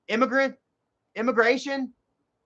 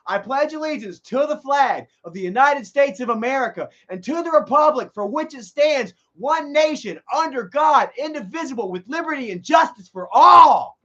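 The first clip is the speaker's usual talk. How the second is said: reciting the pledge; 3 semitones higher than usual. Retold or imitated. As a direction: recite it like a kid at morning assembly.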